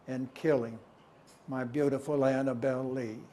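measured verse delivery with forceful openings; poem recitation. Acted. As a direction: recite it as a poem, letting each stanza settle.

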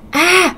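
short high-pitched yelp; sudden cry without extra volume; mild acted scream; cried-out "A!". A narrator's reading. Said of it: "thằng em nó la lên".

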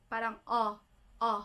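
a long round o; Korean o sound. Shown as a demonstration. Teacher shows the o sound: lips oblong. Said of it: "Ganun siya na sound".

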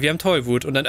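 ordinary talk, nothing marked

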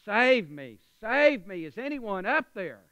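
loud acted cry for help; calling for rescue. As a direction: call up the cliff to be saved. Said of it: "He keeps calling out".

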